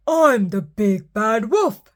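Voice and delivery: indignant howl. Acted. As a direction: howl it in disbelief. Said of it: "he howled".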